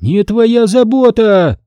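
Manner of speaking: high, slow shrieking woman. A narrator's reading. Woman shrieks at soldier pushing forward, high. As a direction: screech it at the soldier. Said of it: "визжала женщина".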